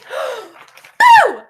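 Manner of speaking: high shouted boo. Pretend. Penguin shouting boo at the kids' count. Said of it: "Louder this time".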